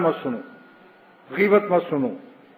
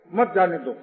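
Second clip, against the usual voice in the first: مت جانے دو as its own phrase, falling; مت جانے دو set apart as a second command; resumed after pause. Shown as a demonstration. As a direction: start fresh on مت, keep مت جانے دو together. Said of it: "اب وقف کر دو".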